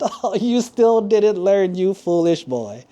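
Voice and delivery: high, slow gloating through an acted laugh; laughing king. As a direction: jeer at the boy, drawing it out.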